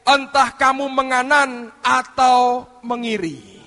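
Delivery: slow, loud Bible reading; emphatic scripture reading. Acted. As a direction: proclaim the verse deliberately. (pembacaan ayat yang tegas dan lantang)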